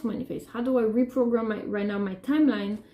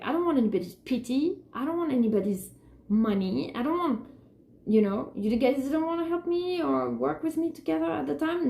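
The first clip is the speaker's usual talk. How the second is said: defiant refusal; 5 semitones higher than usual. Retold or imitated. Retelling her own defiant refusal.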